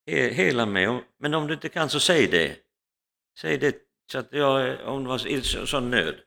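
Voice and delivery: paralysed woman crying out to Jesus at night, pleading; desperate pleading prayer. Retold or imitated. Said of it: "hon ropar till Jesus".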